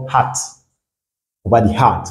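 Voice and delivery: hat with an open French "ah"; hat modelled for learners, open A. Shown as a demonstration. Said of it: "ressemble à une prononciation française".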